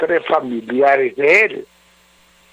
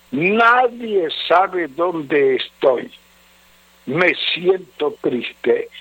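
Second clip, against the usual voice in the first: letter reading; 3 semitones lower than usual. Acted. Reads husband's sorrowful letter.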